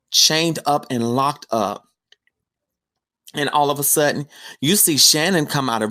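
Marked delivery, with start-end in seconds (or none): 0.1-1.9 slow hushed reveal of the captives; hushed whisper. Retold or imitated. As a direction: whisper it, slowly, as if horrified. Discovering chained women in basement.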